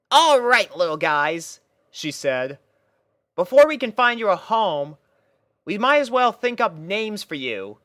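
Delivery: a pony captain lining up her troops; Rainbow Dash voice, bossy and bright. A narrator's reading. Rainbow addressing the puppies.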